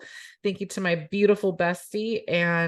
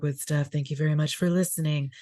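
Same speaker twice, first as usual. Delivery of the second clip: radio voice; 3 semitones lower than usual. Shown as a demonstration. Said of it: "This is now my radio voice".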